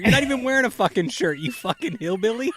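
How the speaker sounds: angry business owner. Acted. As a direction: play an irate customer insulting a stranger. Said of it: "you're an angry business owner".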